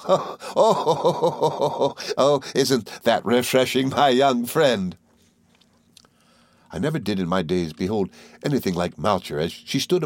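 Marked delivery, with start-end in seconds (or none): 0.1-5.0 high, quick, chattering little woman; Miss Mowcher voice. Acted. Mowcher chattering to the boys, high and merry. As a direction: rattle on like a gossiping dwarf.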